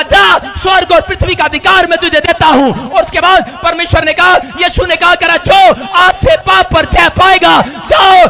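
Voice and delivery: loud commissioning decree; booming command. Acted. God sending Jesus out, a loud commanding proclamation. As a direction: proclaim it with full authority. Preacher voices God's commission.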